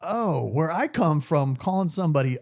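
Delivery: mock Southern accent, teasing back. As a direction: answer her in a put-on Southern twang. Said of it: "I'm talking like it now".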